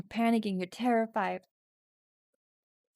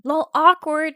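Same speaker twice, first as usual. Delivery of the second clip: loud, high mocking jeer; snide mean-girl taunt; 6 semitones higher, 13 dB louder than usual. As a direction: taunt him like mean girls. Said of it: "They mock, repeating an insult".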